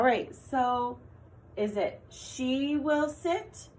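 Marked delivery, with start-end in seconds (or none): 1.6-3.7 slow and higher, offering "she"; slow choice read. Shown as a demonstration. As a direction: lay out the first option slowly. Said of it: "Did you say she?".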